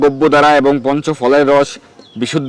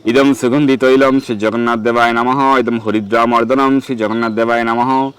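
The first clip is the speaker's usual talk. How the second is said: mantra recitation. Shown as a demonstration. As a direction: intone the Sanskrit offering formula steadily. (মন্ত্র পাঠের টানা সুরে)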